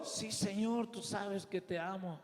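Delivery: soft, subdued answer; humble reply. Acted. Pedro answering the Lord's question, softly and humbly. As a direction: drop right down to a quiet confession.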